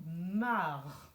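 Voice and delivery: MARRE joined up as one long syllable; blended syllable. Shown as a demonstration. Teacher showing how it reads together, MARRE blended. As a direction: glide through MARRE in a single drawn-out beat. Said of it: "toute une syllabe qu'on lit ensemble".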